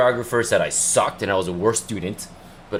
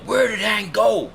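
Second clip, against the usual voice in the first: confused guests; 12 semitones higher, slower than usual. Retold or imitated. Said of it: "Everyone was like".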